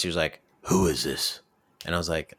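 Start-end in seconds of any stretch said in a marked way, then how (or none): 0.6-1.4 a lower gruff stranger voice; Barrett's put-on voice asking who's calling; put-on phone voice. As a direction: answer the phone as a suspicious stranger. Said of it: "he was talking like this".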